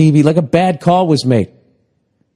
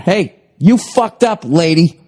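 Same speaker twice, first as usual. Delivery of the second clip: mild scolding yell, raised pitch; mock yelling; 3 semitones higher than usual. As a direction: yell up at her, half-hearted. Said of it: "just yelling at her".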